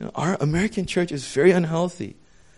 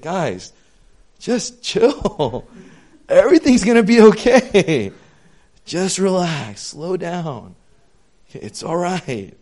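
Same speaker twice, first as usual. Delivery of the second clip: reassuring; 4 semitones higher, 5 dB louder, slower than usual. Retold or imitated. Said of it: "what God sometimes wants to say".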